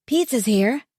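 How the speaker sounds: put-on teen son calling out. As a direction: call it over your shoulder. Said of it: "he called over his shoulder".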